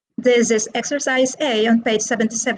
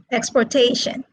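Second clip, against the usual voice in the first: "exportation" said expor-TA-tion; stress on third syllable. Shown as a demonstration. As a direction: hit the TA in "exportation". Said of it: "they are stressed on the third syllable".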